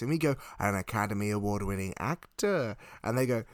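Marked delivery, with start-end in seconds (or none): 0.6-2.8 low, grandly intoned title; mock-solemn explanation. Friends explaining Tom Hanks to aliens, mock-solemn. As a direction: announce it with hammed-up gravity.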